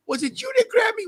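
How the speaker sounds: put-on kid's accusing yell. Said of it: "He asked the kid".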